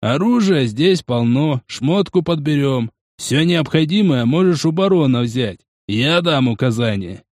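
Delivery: slow, lightly voiced foreman; foreman, easygoing. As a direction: offer help unhurriedly as the foreman.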